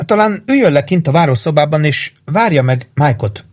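high, gently concerned woman; full of sympathy. A narrator's reading. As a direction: suggest it with sympathy. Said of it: "mondta együttérzéssel teli hangon Missus Kipfer".

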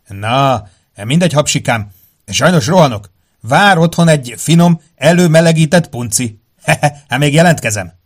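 high, loud fluting voice; sing-song it high like a flute. Acted. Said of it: "most fuvolázott".

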